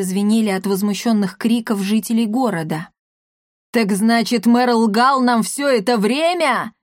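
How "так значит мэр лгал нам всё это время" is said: raised angry yell, slow. Acted. Papa Gautier yelling at the crowd in outrage. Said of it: "вопил папаша Готье".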